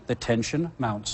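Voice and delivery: low, hushed mock-dramatic line; hammed-up suspense, dropped low and soft; corny. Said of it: "if I may be corny".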